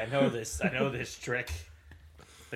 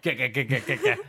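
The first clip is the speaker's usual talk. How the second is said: laughing; 4 dB louder than usual. Retold or imitated. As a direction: laugh through the repeated get. Laughing mimicry of get it.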